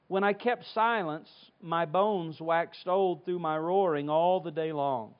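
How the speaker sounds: measured, emphatic Bible reading; formal scripture reading. Acted. Preacher reads Psalm thirty-two to standing congregation, emphatic reading. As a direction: read the psalm out firmly, with pauses.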